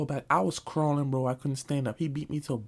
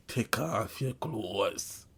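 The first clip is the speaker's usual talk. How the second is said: low, slow stern order; stern command; 5 semitones lower, 3 dB quieter, much slower than usual. Retold or imitated. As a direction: drag the order out slowly. Stepdad's command retold.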